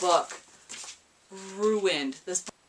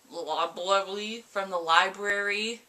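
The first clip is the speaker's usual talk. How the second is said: put-on French accent; slower than usual. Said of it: "I got really French for a second".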